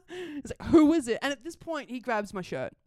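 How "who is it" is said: loud, pissy demand. Retold or imitated. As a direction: imitate an angry man's loud challenge. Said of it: "he gets pissy immediately".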